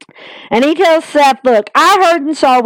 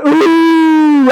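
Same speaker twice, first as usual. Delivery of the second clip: imitated crowd ooh; 3 semitones higher than usual. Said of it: "You heard".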